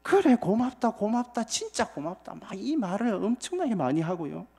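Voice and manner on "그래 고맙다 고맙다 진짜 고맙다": moved gratitude. Retold or imitated. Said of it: "눈물이 날 정도로 감격을".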